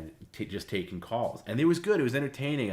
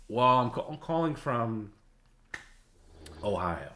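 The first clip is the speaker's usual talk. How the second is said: put-on old man voice; 5 semitones higher, 4 dB louder than usual. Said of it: "an old man voice".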